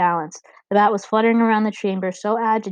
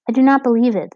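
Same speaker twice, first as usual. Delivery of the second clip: indignant bat warrior; 4 semitones higher, 7 dB louder than usual. A narrator's reading.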